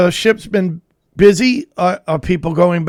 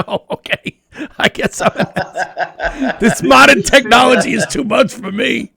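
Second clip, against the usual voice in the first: laughing sheepishly. Retold or imitated. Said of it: "I'm like".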